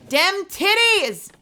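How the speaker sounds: hammed-up high goofy voice; goofy put-on voice. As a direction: squeeze it up high and drag it out as a joke. Repeat in a put-on voice.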